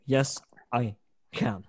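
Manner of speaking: slowly, a light mock of the slogan; Obama impression. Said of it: "my terrible Barack Obama impression".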